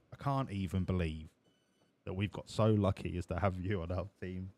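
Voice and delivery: team boss voice. Acted.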